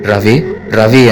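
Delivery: slow, drowsy sleep-talking call; mumbling in sleep. Acted. Hari calling Ravi from a nightmare, slow sleepy mumble. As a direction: draw the name out slowly as if dreaming. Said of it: "Hari నిద్రలో కలవరిస్తూ".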